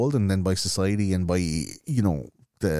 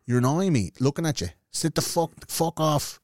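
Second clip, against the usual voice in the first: retold irritation; 6 semitones higher than usual. Retold angry retort to the woman.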